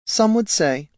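a gentle concession, lightly high-voiced; soft voice. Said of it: "conceded a soft voice behind him".

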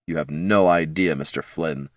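low menacing growl. Acted. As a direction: growl the words from the dark. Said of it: "growled the voice in the shadow".

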